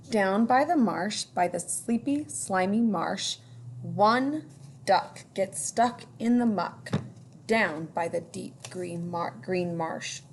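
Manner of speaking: put-on lilting read-aloud for children; storytime reading. A narrator's reading. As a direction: read it like a picture book to kids. Reading picture book aloud.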